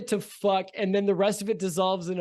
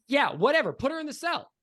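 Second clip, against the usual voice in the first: exasperated boss; 3 semitones higher, 4 dB louder than usual. Acted. Boss losing patience.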